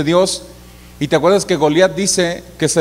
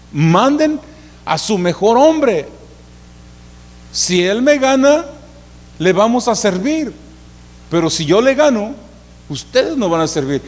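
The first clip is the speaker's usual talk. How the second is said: Goliat shouting; 5 semitones higher than usual. Retold or imitated. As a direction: shout the dare across the valley, slowly. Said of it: "les gritaba y decía". (grito burlón de Goliat, agudo y fuerte)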